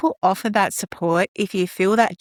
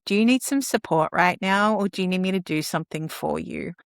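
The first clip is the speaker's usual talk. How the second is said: kind offer. Shown as a demonstration. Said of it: "just kindly ask and say".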